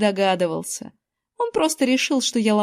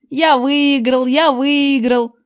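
loud, high gloating chant; gleeful yelling; 4 semitones higher, 5 dB louder, much slower than usual. A narrator's reading. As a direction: shout your win over and over. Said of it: "вопил он". (радостно вопя)

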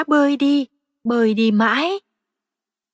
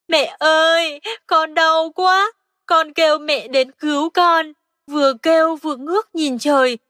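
tearful little frog; 3 semitones higher than usual. Acted. Frog child tells mother.

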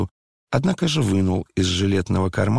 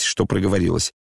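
ordinary delivery, nothing marked

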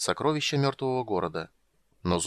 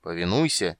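menacing; 4 semitones lower than usual. Acted. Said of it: "угрожающе наклонила голову".

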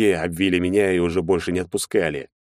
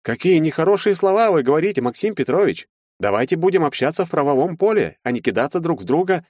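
prim lawyer; 10 semitones higher than usual. A narrator's reading. Lawyer to Maxim, reproachful and higher. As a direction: scold him primly.

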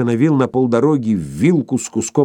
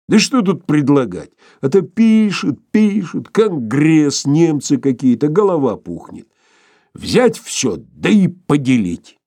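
raised, higher-pitched character voice; lightly voiced grumbling Sharikov; 6 semitones higher, 4 dB louder, slower than usual. Sharikov answers the professor's question about his reading, mildly exasperated.

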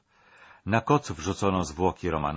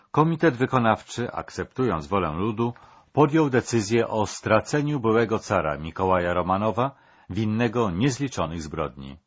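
a lightly raised, official proclamation tone; formal decree reading; 4 dB louder than usual. Acted. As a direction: announce the sentence to the condemned. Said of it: "zaczął odczytywać na głos rozkaz". (oficjalne odczytanie wyroku)

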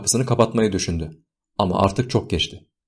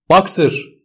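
high, anguished falling shout; piteous raised-pitch call; heart-rending cry; 9 semitones higher, 4 dB louder than usual. A narrator's reading. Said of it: "diye haykırdı yürekleri dağlayan bir sesle".

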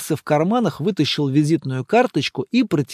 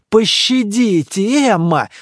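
louder, slow mock plea; exclaiming; 4 semitones higher, 5 dB louder, slower than usual. A narrator's reading. Monk begging Emma to stop, mock exclamation. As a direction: cry out for mercy half-joking. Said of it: "вскричал монах".

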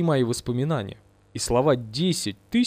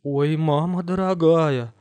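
slow stunned moan; slow dumbfounded oh; dazed dismay; 2 semitones higher, slower than usual. Acted. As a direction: gasp it out, stupefied. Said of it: "повторяла обалдевшая дура".

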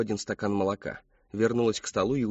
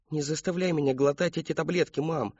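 put-on higher pleading child voice; boy begs his mother not to force pills, higher; begging; 6 semitones higher than usual. A narrator's reading. Мальчик умоляет маму, голос выше. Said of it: "взмолился он".

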